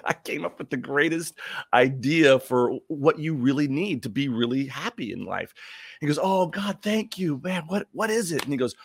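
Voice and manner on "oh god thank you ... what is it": high-pitched gushing thanks, acted out; relieved and eager, pitched well up; eagerly grateful. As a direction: play Adam desperate to hear the news. Adam thanks God eagerly.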